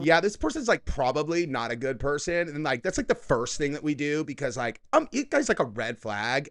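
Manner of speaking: lightly exaggerated imitation of her lilt; mocking her speech. Host parroting the woman in the clip, lightly mocking her inflection. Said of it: "why do you talk like that".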